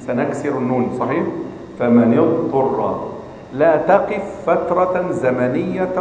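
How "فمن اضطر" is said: slow فمن اضطر with the nun in kasra, joined; joined reading demo. Shown as a demonstration. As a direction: link فمن اضطر slowly in one breath. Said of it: "في حالة الوصل". (فمن اضطر بالوصل ببطء)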